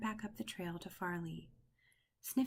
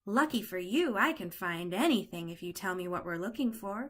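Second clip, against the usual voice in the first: louder, cocky brag; puppy bragging to a lost duckling; boastful; 5 dB louder than usual. Acted. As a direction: show off your sniffing skills. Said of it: "Farley boasted".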